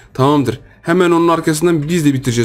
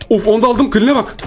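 high-pitched thrilled commentary; excited gloating; 8 semitones higher, slower than usual. Real, not acted. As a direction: pitch up, revelling in the kills. Excited run of kills in game. (heyecanla, tiz sesle)

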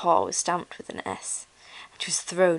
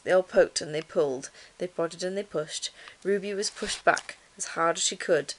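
measured bedtime-story reading; story narration. A narrator's reading. Reading a children's book to listeners, story narration. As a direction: tell it clearly, a little fuller than chat.

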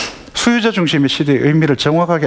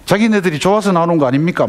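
quick, higher-pitched indignant retort; mock angry son; 5 semitones higher, faster than usual. Son losing his temper at parents, acted indignation. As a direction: fire it back fast and high, lightly acting cross. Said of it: "막 화를 내는 거예요".

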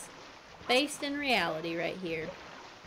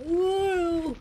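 excited; 8 semitones higher, 7 dB louder than usual. Real, not acted. Excited at something in game.

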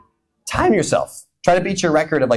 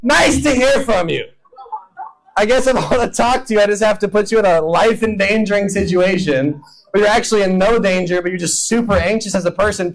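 dry sarcastic God; 3 semitones higher than usual. Retold or imitated. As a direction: tease them, a little hurt. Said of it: "God's like".

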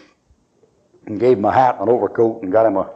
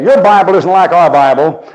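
put-on interrupting girl; 5 semitones higher, 5 dB louder than usual. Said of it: "the Catholic interrupt and say".

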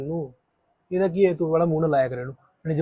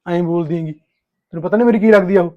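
husband yelling at his wife over the other woman; angry shout; 3 semitones higher, 9 dB louder than usual. Acted. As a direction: shout her down in fury.

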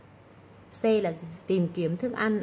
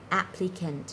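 "applicant" with the first syllable stressed; slower than usual. Shown as a demonstration. Teacher showing word stress to students, "applicant" stressed on its first syllable. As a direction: lean on the opening "ap" of "applicant". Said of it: "nhấn vào âm đầu".

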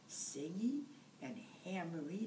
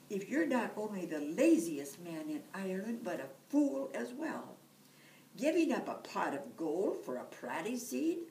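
furious; 2 semitones higher, 6 dB louder than usual. Acted. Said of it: "she was furious".

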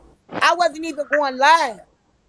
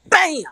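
higher-pitched "bam" for a body slam; sound-effect bam in a retelling; imitated slam; 5 semitones higher than usual. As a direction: punch out a sudden impact word. Sound of being slammed down.

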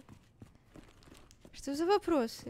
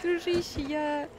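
pleading; 3 semitones higher, 5 dB louder than usual. Real, not acted. Begging the monster.

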